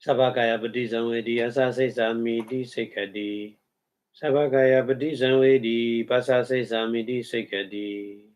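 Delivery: steady recited Pali verse; Pali recitation. Shown as a demonstration. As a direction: recite the Buddha's words in Pali. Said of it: "Buddha talk like this".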